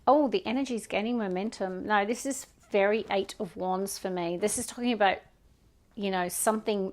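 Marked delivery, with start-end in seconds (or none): none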